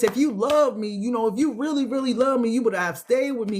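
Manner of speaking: "really love me" pleaded high and hurt; emotional plea. Acted. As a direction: beg like someone abandoned, near tears. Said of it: "That's why I said it like that".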